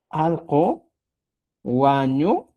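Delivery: Al con guañurapon, dicho lento y separado en dos partes; quechua pronunciation. Shown as a demonstration. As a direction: slowly model Al con guañurapon with a pause. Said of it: "cuando pones y dices". (pronunciación lenta de Al con guañurapon)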